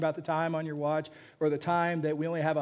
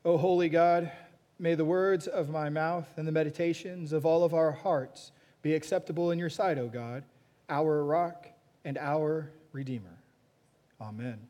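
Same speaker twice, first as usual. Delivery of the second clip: prayer. Acted. Pastor leads congregation in prayer.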